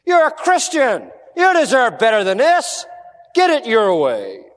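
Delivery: lightly voiced tempter, coaxing the listener; a hint of sly devil flattery; Satan's whisper. Satan tempting a Christian, sly coaxing. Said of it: "You hear that voice of Satan".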